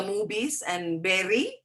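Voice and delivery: "movies" said as "mubis", "berry" for "very"; b in place of v in "movies" and "berry"; accented mispronunciation. Shown as a demonstration. Teacher quoting confusing words, "movies" with b for v. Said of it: "speak like that".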